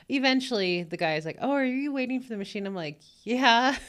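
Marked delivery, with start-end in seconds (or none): 1.4-2.7 quick, higher surprised question; a man suddenly noticing her. Retold or imitated. Man at lottery machine. 3.2-3.8 emphatic yeah. Retold or imitated. Her answer to the man.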